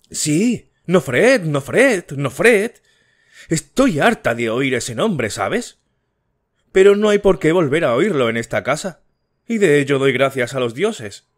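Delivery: high, loud furious cry of the name; angry outburst. A narrator's reading. Wife bursts out at her sister-in-law over Nofret, furious shout. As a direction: explode with rage at the name. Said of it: "prorrumpió en un estallido de ira".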